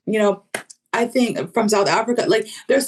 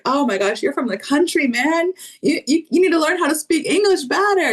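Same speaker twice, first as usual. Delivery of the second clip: higher-pitched mock ribbing of a friend; joking mock teasing; 6 semitones higher than usual. Friends joking about a country accent, mock teasing. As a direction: rib a pal in mock dismay, pitched up. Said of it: "they joke with each other".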